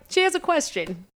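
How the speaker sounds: high, excited push for a friend; eager. Retold or imitated. Fan pushes friend toward Max, high and eager. Pushing her nervous friend forward.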